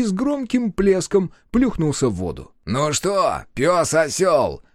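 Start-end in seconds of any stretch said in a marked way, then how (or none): 2.6-4.6 slow mocking bark; barking taunt. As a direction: snap out the insult slowly. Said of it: "рявкнул Пума".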